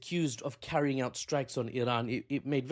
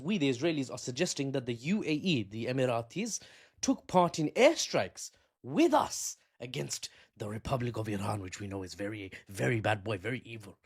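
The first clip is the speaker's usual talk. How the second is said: mock Israeli government voice; 3 semitones lower than usual. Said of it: "And the government says".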